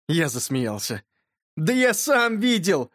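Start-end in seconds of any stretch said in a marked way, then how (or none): 1.6-2.9 higher, drawn-out indignant exclamation; mild boyish cry. A narrator's reading. Yurka insists to his laughing friend, mild cry. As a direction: protest in a slow, raised boy's cry. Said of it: "закричал Юрка".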